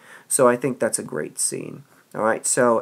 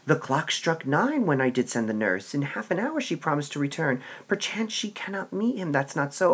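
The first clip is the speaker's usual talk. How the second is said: impatient Juliet; 3 semitones higher than usual. Acted. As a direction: read it as a restless girl waiting. Teacher reads Juliet's lines.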